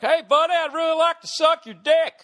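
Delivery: loud, high-pitched hammed-up redneck twang; stereotypical redneck accent. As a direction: holler it like a cartoon Southern redneck. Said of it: "To do a stereotypical redneck accent".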